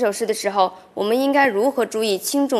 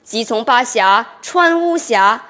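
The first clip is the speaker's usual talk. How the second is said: slow, measured classical reading, slightly louder; full poem recitation; 3 dB louder, slower than usual. Shown as a demonstration. Student reciting the whole Du Fu poem for the professor, slow measured reading. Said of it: "你试一下".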